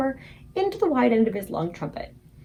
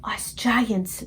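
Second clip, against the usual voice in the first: whispered. A narrator's reading. BFG whispering to Sophie about Jack, hushed whisper. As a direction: whisper it secretively. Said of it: "the B F G whispered".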